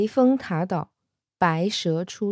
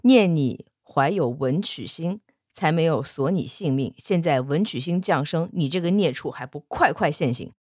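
stern monk; 3 semitones lower than usual. Acted. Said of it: "怒目圆睁".

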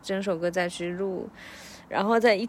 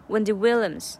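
"Williams" with a strong breathy w; 重读Williams; stressed Williams; 2 semitones higher, 4 dB louder than usual. Shown as a demonstration. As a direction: push air into the w of "Williams". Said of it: "这个w的音可以把它气息再足一点".

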